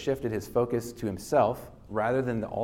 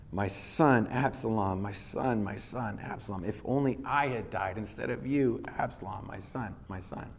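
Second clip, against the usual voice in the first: mild grieving cry that fades to near silence; a father's lament read aloud, dying away to a hush. Acted. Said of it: "he cried".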